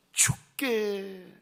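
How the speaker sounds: very slow, stretched word 죽게; drawn-out emphasis. Shown as a demonstration. Preacher stretching 죽게 for the congregation. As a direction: draw out 죽게 slowly. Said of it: "이 단어 보시겠습니까?".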